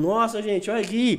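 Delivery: a high, gushing stories voice; mock excitement. Filming stories for followers, mock excited high voice. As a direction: perform amazement for followers. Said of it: "E eu falando dos stories".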